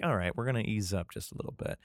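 mock lenient king. King offering to ease up on the people, mock lenient. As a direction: toss off the mild concession quietly. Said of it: "instead of being like".

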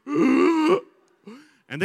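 high, loud, slowed disbelief; incredulous. Real, not acted. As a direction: let the shock hang on every word. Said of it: "everyone in the gym is like".

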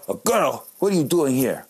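imitated German grandma; German-accented grandmother nagging. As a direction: scold lightly in a German accent. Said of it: "she has a German accent".

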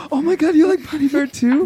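high, gasping fan excitement; excited gasp. Acted. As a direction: gush like a starstruck fan. Fan gushing over shared band.

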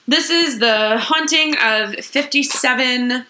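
announcer. Acted. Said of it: "formal intro start".

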